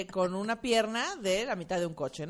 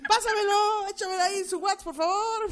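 laughing; 11 semitones higher, 5 dB louder than usual. Retold or imitated. Mocks her own silly request.

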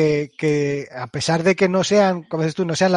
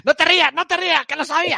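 laughing; 9 semitones higher, 3 dB louder, faster than usual. Real, not acted. Teasing the laughing friend.

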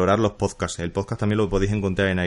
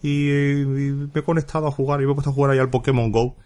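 higher, lightly voiced quote of Mónica; a light imitation of a friend telling her news; imitating Mónica; 5 semitones higher than usual. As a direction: play back the friend's message in a mild put-on voice. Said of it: "me dice Mónica".

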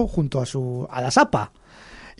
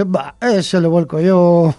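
slow, drawn-out dismissive boast; mock swagger; cocky toad; much slower than usual. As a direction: brag it lazily, brushing off the warning. Boastful toad brushes off warning.

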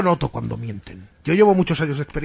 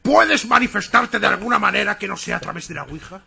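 raised, commanding summons; insistent repeat. Acted. Medium repeats the demand to the spirit, insistently.

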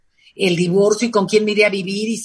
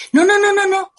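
emphatic no; 11 semitones higher, 4 dB louder than usual. Real, not acted. Rejecting a bad explanation.

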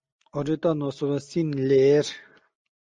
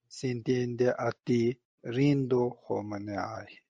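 slow, solemn prayer recitation; prayer reading; slower than usual. Acted. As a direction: read the homage slowly and devoutly. Reads a homage prayer aloud.

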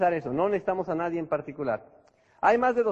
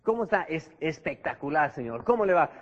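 enthusiastic; 3 semitones lower than usual. Shown as a demonstration. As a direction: greet them like it's the best day ever. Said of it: "la persona que está entusiasmada".

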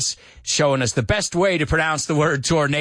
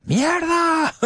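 mock exclaimed curse. Translating curse playfully.

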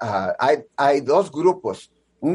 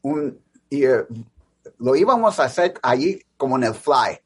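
American accent Spanish. Real, not acted. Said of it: "disculpa mi español porque es mi segundo idioma".

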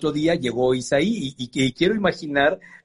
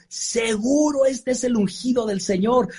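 Samuel sure of himself; 7 semitones higher, slower than usual. Retold or imitated. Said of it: "y así dijo".

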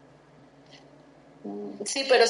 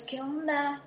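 pleading with God; 4 semitones higher than usual. Retold or imitated. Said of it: "yo le decía a Dios".

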